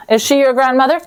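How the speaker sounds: ordinary delivery, nothing marked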